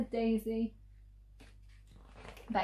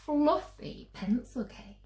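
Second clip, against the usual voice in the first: much higher, louder and fast, piling it on; desperate mum; 9 semitones higher, 7 dB louder, faster than usual. Acted. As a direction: promise the whole world in one breath. Mum's desperate endless bribe.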